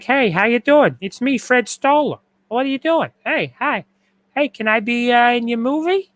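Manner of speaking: high, dopey sitcom-guy voice; Fred Stoller impersonation. Retold or imitated. Host imitating a dopey actor for stream viewers, high voice. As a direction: pitch way up and play a dopey, eager actor. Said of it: "He talks like this".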